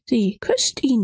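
hushed repeat of sie küsst ihn; whispered. Acted. Else repeats it, shocked inward.

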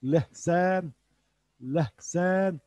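Lehsen with a breathy h in the middle; Urdu pronunciation. Shown as a demonstration. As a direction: model Lehsen, h breathed out, not from the throat. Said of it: "genizden şey yapmıyorum". (Lehsen kelimesini hafif nefesli h ile söyle)

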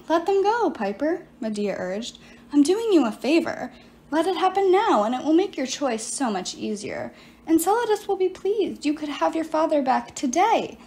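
silky coaxing voice, lightly played; persuasive sorceress. Medea urges Piper to let them fight, coaxing. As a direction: coax her like a tempting witch. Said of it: "the sorceress still had a persuasive voice".

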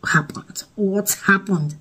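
imitated whisper, slow; officer whispering. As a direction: breathe the question out, slowly and unvoiced. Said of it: "officer was like".

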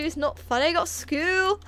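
jokey Scottish-or-Irish accent. Shown as a demonstration. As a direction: put on a Scottish or Irish lilt. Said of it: "Scottish or Irish, right?".

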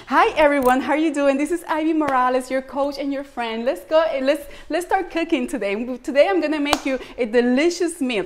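chirpy cooking-show opener in English; pretend English host. Host imagines opening her show in English, upbeat. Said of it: "¿Tú te imaginas que yo venga acá?".

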